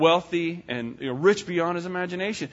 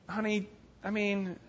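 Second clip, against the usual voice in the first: mocking. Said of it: "now she starts mocking him a little bit".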